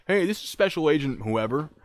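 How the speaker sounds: loud knock-and-announce call. Retold or imitated. Agent announces himself at the door, calling out.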